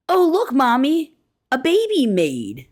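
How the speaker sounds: put-on high-pitched child's excited call, drawn out at the end; excited little girl. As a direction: imitate a little girl calling out to her mother. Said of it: "calls out excitedly".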